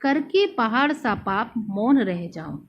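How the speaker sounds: slow, weighty verse line; poem recital. Shown as a demonstration. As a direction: recite the line as heavy remorse. Recites the verse of Kaikeyi's remorse. (ग्लानि भरे स्वर में काव्य पाठ)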